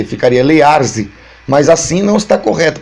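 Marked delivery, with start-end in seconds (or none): 0.4-1.1 "learze" pronounced slowly as a backwards spelling; letter-by-letter reading. Shown as a demonstration. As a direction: sound out "learze" for the listener. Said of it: "estou lendo letra por letra". ("learze" lido letra por letra)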